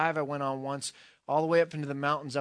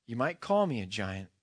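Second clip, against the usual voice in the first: a hint of a large voice, pitched down; lightly voiced large presence, lower than usual; 4 semitones lower than usual. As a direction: answer low as the large unseen being. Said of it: "said the large voice".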